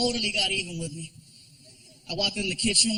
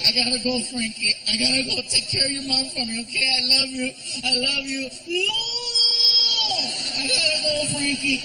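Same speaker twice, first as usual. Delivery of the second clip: mock tearful goodbye; 2 semitones higher than usual. Fake tearful goodbye to son.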